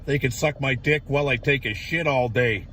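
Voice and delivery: ordinary talk, nothing marked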